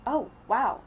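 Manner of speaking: bright surprised "Oh, wow"; exclaiming. A narrator's reading. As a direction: exclaim it, a lift of delight. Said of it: "I exclaim".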